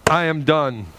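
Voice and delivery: slow, worn-out sigh of defeat; weary giving up. Retold or imitated. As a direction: say it like you've had enough. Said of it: "there are times where I have went".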